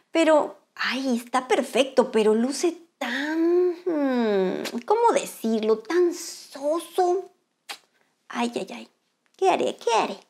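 slow, soft, whimpering complaint; whiny sad crab. Acted. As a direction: sigh over the dull shell. Crab sad house looks dull.

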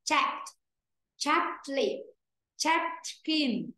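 "chat" with the t only puffed out, before "leaf" and "skin"; clearly released t. Shown as a demonstration. Teacher corrects students, "chat" with a clean released t. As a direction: release the t in "chat" without a vowel. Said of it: "Đấy thì chỉ rõ ra".

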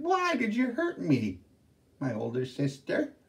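high, plaintive ghost voice; whining younger sister. Acted. Younger ghost sister accusing her sister, whining. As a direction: complain to big sister.

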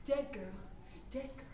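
from soft to almost nothing; fading refrain. Acted. Performer mourning the dead girl, fading to silence. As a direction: let each "dead girl" die away.

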